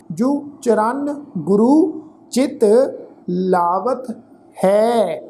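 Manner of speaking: slow, measured Gurbani reading; scripture recitation. Shown as a demonstration. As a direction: recite line by line with drawn-out syllables and pauses.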